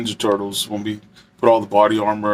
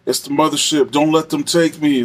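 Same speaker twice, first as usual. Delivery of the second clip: lightly pitched-up panicked pleading; a hint of a terrified prisoner crying out; imitating a frantic inmate; 3 semitones higher than usual. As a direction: mimic a man begging the Lord for help. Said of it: "so he kept saying that".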